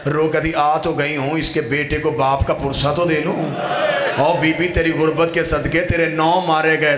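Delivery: grieving preacher's chant, voice full and carrying; mourning sermon. Acted. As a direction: tell the Karbala lament to a mourning crowd. Majlis lament narration.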